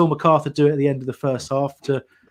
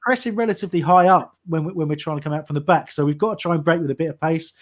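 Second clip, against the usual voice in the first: play-by-play commentary. Acted. Live play-by-play of the match.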